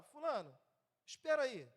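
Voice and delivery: chamado firme, um pouco mais alto, à criança; voz de comando. Shown as a demonstration. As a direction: chame a atenção da criança com voz de comando moderada. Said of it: "alguma outra voz de comando". (pai dando uma ordem ao filho, voz firme de comando)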